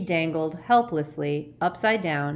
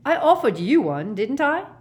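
high, loud protest; aggrieved, raised voice; indignant shout; 8 semitones higher, 7 dB louder than usual. A narrator's reading. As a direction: shout back defensively. Ron shouting back while dangling.

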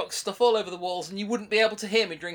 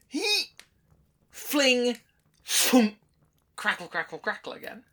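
crackling fire sounds; 2 semitones higher, slower than usual. Pretend. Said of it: "That's basically throwing log on the fire noises".

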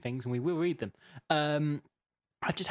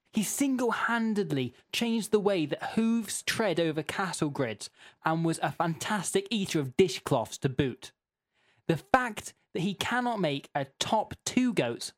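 emphatic, mildly indignant all-caps read; mildly shouty reading; 4 semitones higher than usual. Acted. Host reading Terence's complaint aloud, mildly shouty. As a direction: press each point like an aggrieved letter-writer. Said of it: "it's how you have to read them".

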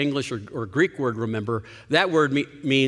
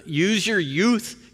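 slow, higher, urgent plea; passionate plea; 6 semitones higher, much slower than usual. Retold or imitated. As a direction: urge them slowly and warmly. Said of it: "he's saying this with great passion".

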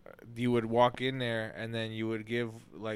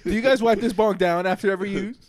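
laughing; 8 semitones higher, 7 dB louder than usual. Acted. Acting inspector question, laughing.

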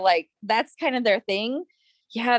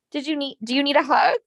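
put-on sweet gentle boyfriend; 2 semitones higher, faster than usual. Imitating Ian asking Chris if he needs a hug, sweetly. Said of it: "the most sweet".

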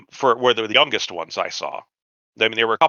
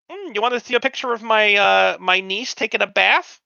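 creepy guy voice; 10 semitones higher than usual. Retold or imitated. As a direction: make it as skin-crawling as you can. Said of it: "it was that kind of vibe".

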